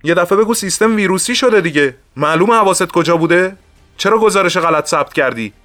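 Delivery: high-pitched, indignant scolding; angry boss. A narrator's reading. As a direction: tear into a subordinate over his mistake. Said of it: "با عصبانیت گفت". (سرزنش با عصبانیت)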